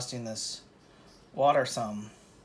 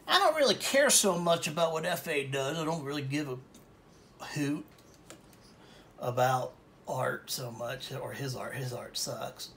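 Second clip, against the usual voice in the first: put-on Texas accent. Painter imitating a viewer in a light Texas accent. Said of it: "My Texas accent".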